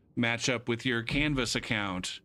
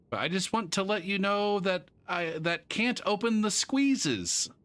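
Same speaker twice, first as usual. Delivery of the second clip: reading student email; 8 semitones higher than usual. Retold or imitated. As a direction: read the odd phrasing deliberately. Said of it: "He's sending me an email".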